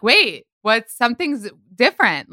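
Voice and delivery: mildly puzzled, voicing someone else's double take; mock puzzlement. Host imitating viewers hearing the actress's regular voice, mock puzzlement.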